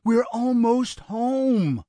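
high, slow, loud soothing; pleading reassurance. A narrator's reading. Brother trying to settle the gunman, anxious soothing. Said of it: "Barry soothed".

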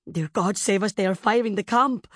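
nurse's alarmed gasp; frightened gasp. A narrator's reading. Nurse seeing the camp on fire, gasping in fear. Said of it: "her nurse gasped".

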